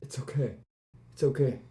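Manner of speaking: low, gentle reassurance; calm someone who is panicking; hushed comforting tone; soothing. Acted. Character soothes distraught Joseph.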